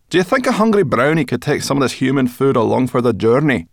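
high, loud chirpy brownie; high brownie voice, talking with her mouth full. Acted. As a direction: pitch her up into a bright little creature. Sorrel voiced.

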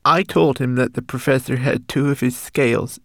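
high, tearful, breaking voice; sobbing confession. Acted. Homunculus confessing his spying, sobbing. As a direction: pour out the guilt through tears. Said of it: "sobbed the homunculus".

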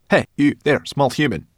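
high, loud, irritable snap; prickly creature telling someone off; snapping. A narrator's reading. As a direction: snap crossly at an intruding child. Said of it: "she snapped at the boy".

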